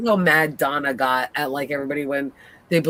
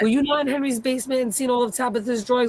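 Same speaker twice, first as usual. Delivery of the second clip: indignant, higher-pitched telling-off; retold mad rant; 5 semitones higher than usual. Viewer scolding Tabitha over her claimed memories, mad. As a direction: replay your outrage at her, pitch climbing. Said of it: "I was so mad".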